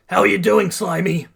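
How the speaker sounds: high, loud cocky check-in; calling out. A narrator's reading. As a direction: shout over to your partner. Bakugo calls to partner mid-battle.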